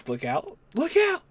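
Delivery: playful high-pitched "look out" call; mock warning. Host jokes on own slip of the tongue, mock warning. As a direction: leap way up in pitch, jokily alarmed.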